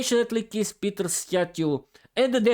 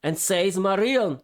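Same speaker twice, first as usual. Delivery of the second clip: vampire voice. Acted. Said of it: "in the voice of the vampire".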